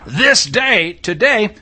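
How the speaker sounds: "this day" drawn out slowly, then "today" lifted; emphasis on THIS DAY. Shown as a demonstration. Teacher showing the verse includes everyone, stressing "this day, today". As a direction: stretch "this day" and punch "today". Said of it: "if you put the emphasis on the right syllables".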